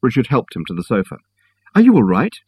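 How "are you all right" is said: helpless. A narrator's reading. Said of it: "asked Richard helplessly".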